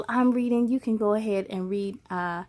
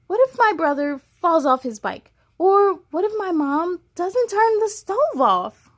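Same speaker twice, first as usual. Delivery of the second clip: rising anxious questions; mildly fretful little girl; worried child; 5 semitones higher than usual. Acted. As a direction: voice the girl's worries. Pippa lists worries.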